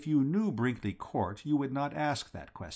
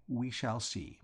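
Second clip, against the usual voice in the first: softer, calm and measured; quiet confidence; quietly; 6 dB quieter than usual. Acted. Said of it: "I said quietly".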